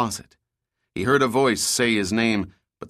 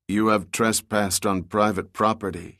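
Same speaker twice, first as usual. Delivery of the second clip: monotone. Acted. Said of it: "in a monotone voice that was short on mercy".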